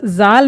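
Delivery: जाल as zaal, plain z; wrong buzzing z. Shown as a demonstration. Teacher shows what not to read, zaal for जाल. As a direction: say जाल with an English z. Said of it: "जाल नहीं पढ़ना है".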